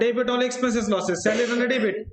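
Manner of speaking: drawn out, one word at a time; slow spelling out. Shown as a demonstration. Teacher walking the class through the rule, slowly.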